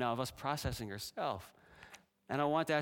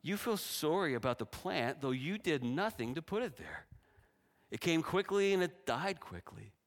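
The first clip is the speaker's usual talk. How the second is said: God speaking; 4 semitones higher than usual. Acted. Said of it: "the Lord said".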